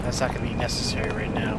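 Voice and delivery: whisper. Real, not acted. Quiet aside while dropping shield.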